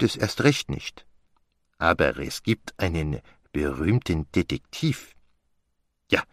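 put-on self-satisfied French-accented detective; Poirot. Explaining why the star will visit him, as a self-satisfied Poirot. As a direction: deduce with relish, lingering on key words.

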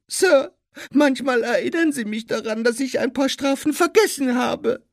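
very high squeaky elf; Dobby. A narrator's reading. Elf describes his endless punishments, high squeak. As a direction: keep a loud, piping squeak throughout.

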